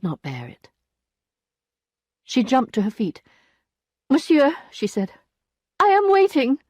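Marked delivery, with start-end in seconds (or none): 4.1-4.5 high sharp address; indignant. A narrator's reading. Emma rising from the lawyer's advances, indignant. 5.8-6.6 high, loud and firm; cold indignation. A narrator's reading. Emma demanding the lawyer's help, indignant.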